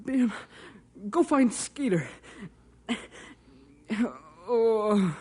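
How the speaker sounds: low, broken moans between words; whimpering in pain, forcing out each word; crying from pain.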